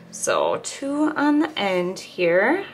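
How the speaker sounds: talking around a needle; mouth full. Real, not acted. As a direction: needle held between the lips. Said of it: "There's the needle in my mouth again".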